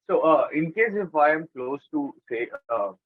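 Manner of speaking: muffled voice, far from the mic; speaking muffled, away from the microphone. Real, not acted. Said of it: "your voice is a bit muffled".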